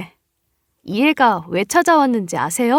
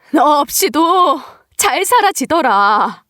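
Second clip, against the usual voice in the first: firm rebuff; 4 semitones higher, slower than usual. Acted. Mother rejects daughter.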